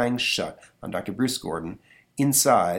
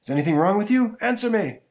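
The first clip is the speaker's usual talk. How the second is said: character voice; 11 semitones higher, 5 dB louder than usual. Acted. Comic read, voicing character.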